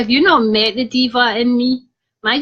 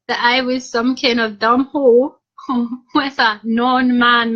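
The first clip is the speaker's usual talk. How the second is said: laughing. Real, not acted. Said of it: "could not stop laughing".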